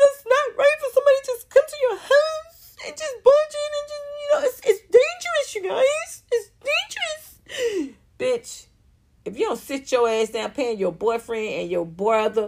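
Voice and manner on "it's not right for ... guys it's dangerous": very high, tearful, acted-out sobbing voice. Speaker mocks a woman complaining that someone barged into her house: mock-tearful woman. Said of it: "She had tears".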